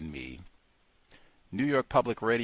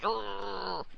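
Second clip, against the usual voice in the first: disgusted grunt; 11 semitones higher, 6 dB quieter than usual. Acted. Disgusted grunt after quote.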